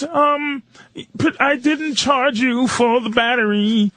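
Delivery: lightly mocked tank-guy voice; imitating the tank guy. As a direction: draw it out like a passive hint. Voicing Tom mentioning the battery charge.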